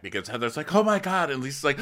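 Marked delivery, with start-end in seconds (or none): 0.7-1.3 high mock-tearful exclamation; put-on weepy cry; fake crying. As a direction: moan it high, as a pretend sob. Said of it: "you're both fake crying".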